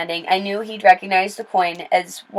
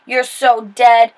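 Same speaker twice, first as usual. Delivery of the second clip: slow, louder snarl; 3 semitones higher, 5 dB louder, much slower than usual. Acted. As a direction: drag out a slow, mean snarl. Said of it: "Jasper Junior snarled".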